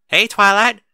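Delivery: high, loud, eager hello; excited greeting. A narrator's reading. Apple Bloom excitedly greeting Twilight, high and loud. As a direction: bounce into the greeting.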